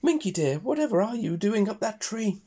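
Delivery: high shriek of a frightened mum. Acted. Frightened mother pig sees her daughter in a tree, high fearful shriek.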